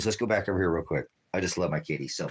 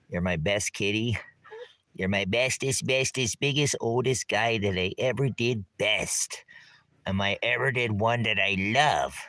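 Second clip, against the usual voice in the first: cooing at the cat; 3 semitones higher than usual. Real, not acted. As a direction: gush over the kitty. Doting on his cat.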